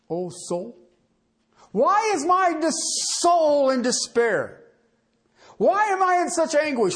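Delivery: anguished lament. Acted. Psalmist's anguished questions voiced.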